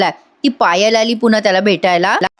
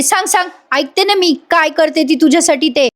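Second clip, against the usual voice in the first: Payal; 6 semitones higher than usual. Retold or imitated. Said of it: "पायल म्हणते".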